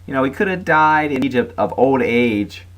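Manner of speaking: high-pitched sarcastic complaint; mock grumbling. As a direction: imitate grumblers with exaggerated sarcasm. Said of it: "they do the grumble".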